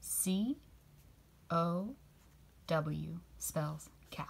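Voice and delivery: slow, whispered spelling. Shown as a demonstration. Teacher whispering the spelling of cow slowly. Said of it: "Can you say that with me".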